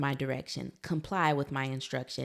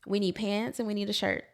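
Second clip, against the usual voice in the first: patient mom; 4 semitones higher, 3 dB louder, faster than usual. Retold or imitated. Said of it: "I'm like".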